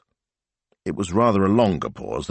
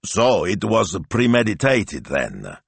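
acidly; 3 semitones higher, slower than usual. Acted. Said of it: "he said acidly".

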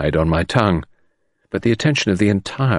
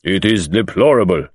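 stern. Acted. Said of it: "his sternness of manner returning".

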